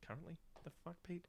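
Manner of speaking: mock outrage. Mock outraged reply to himself.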